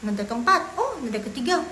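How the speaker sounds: mock lightbulb moments; student recognising tones. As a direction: act out a learner catching on. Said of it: "dengerin orang ngomong".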